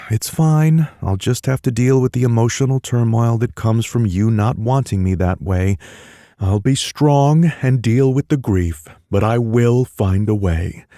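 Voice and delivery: mock melodrama. Miles mock-mourning being rejected by Tanner. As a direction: play the brave heartbroken hero for laughs.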